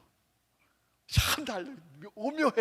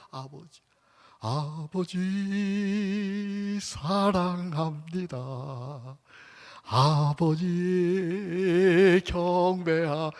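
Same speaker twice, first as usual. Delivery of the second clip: slow tender prayer; 2 semitones higher, much slower than usual. Shown as a demonstration. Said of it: "그냥 아버지를 부르는데".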